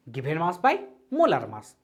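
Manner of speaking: very slow, formula spelt out word by word; slow dictation. Shown as a demonstration. Teacher reminding students of the formula, slow dictation. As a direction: recite the formula slowly for notes. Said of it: "याद कीजिए".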